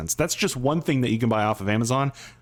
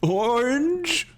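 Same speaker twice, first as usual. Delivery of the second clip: incredulous; 12 semitones higher than usual. Real, not acted. Incredulous at odd middle name.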